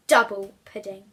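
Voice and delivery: loud delighted double pudding; gleeful. A narrator's reading. Narrator relishing Bertha's reward, loud and gleeful. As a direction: savour the prize.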